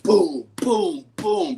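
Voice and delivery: imitated pounding. Mimics banging on the door.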